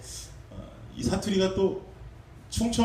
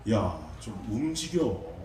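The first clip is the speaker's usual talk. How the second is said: Chungcheong dialect. Retold or imitated. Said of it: "말투가 이렇게 충청도 말이 나오는데".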